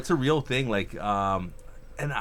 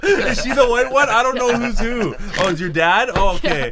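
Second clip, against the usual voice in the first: Asian mom voice; 10 semitones higher, 5 dB louder than usual. Retold or imitated. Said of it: "I did the Asian voice for your mom".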